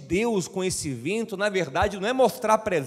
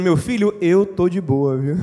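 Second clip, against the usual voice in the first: relaxed God; 5 dB louder than usual. Retold or imitated. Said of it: "Aí Deus dizendo".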